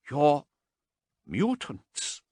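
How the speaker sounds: high startled disbelief; shocked question. A narrator's reading. Haas shocked to find mutants around her. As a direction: blurt it out in shock.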